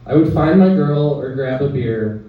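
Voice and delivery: measured poem recital with short pauses; poetry reading. Acted. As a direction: read it as verse, line by line. Reads own poem aloud.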